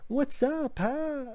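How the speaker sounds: squeaky, high-pitched clown voice. Reviewing a movie, mocking the clown in a high-pitched Killjoy voice. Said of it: "He's trying to have this like high-pitched voice".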